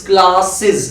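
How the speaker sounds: classes ending in "sɪz", very slow; correct pronunciation. Shown as a demonstration. Teacher modelling classes for students, slowly. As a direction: end classes with a short siz. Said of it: "not classes".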